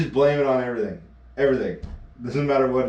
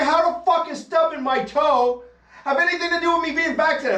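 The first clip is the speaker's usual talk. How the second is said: mock indignant protest. Emma demanding what her toe has to do with it, mock outrage. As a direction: huff it out in disbelief. Girlfriend protests his joke, retold.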